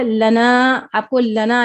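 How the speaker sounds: लना with short "la" and stretched "naa"; long second syllable. Shown as a demonstration. Teacher introducing the example, short-long लना. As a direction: keep ल quick, lengthen ना. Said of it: "नून को लंबा पढ़ना है".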